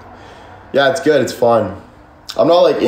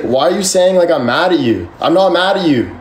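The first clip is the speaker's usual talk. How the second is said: retold protest, pitched up in exasperation; exasperated retort; 5 semitones higher than usual. Answering someone who assumes he is mad, exasperated. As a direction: throw the accusation back, annoyed. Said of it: "It makes me mad".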